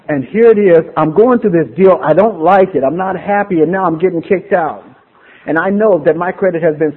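rising frustration. Real, not acted. Venting about being evicted.

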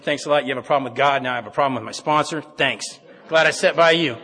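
loud, aggrieved mock gratitude; sarcastic thanks. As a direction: thank him pointedly, as if blaming him. Retold sarcastic thanks to Roy.

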